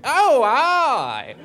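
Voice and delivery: a hint of a Scottish drag act; lightly done Scots voice; mock Scottish. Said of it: "dress and going".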